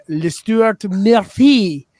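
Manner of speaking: mock French. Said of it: "that's how he demands his name".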